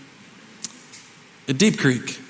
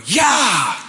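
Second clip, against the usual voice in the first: higher mock yell of the guide; guide's yell; 5 semitones higher than usual. Pastor imitating the horse guide whooping, higher. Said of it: "I hear the guy go".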